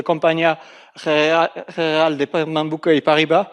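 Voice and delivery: clumsy attempt at Portuguese pronunciation; terrible Portuguese accent. Shown as a demonstration. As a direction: try the Portuguese accent and fumble it. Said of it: "for the terrible accent".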